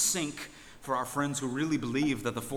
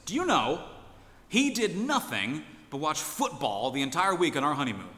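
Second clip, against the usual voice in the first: a lightly voiced indignant wife, higher and louder; wife's complaint; 4 semitones higher, 5 dB louder than usual. The wife complaining to the pastor about the honeymoon, mildly indignant. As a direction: tattle on him to the pastor, a touch put out.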